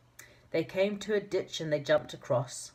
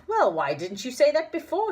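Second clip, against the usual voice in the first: beaming; 10 semitones higher, 6 dB louder than usual. A narrator's reading. Moonface beams out.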